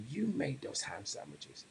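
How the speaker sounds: acted hushed bewilderment; really puzzled. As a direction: say it quietly, as if baffled. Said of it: "really puzzled".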